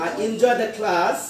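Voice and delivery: slow "I enjoy the class", "class" let down. Shown as a demonstration. Teacher modelling a statement, falling on "class". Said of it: "ভয়েসটা উপর থেকে নিচের দিকে যাবে".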